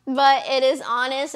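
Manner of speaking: fighting back tears while laughing it off; choked up. Real, not acted. Vlogger admitting to followers she's emotional, choked up. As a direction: voice catching, high and tight. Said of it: "I'm getting emotional, I'm, like, getting choked up".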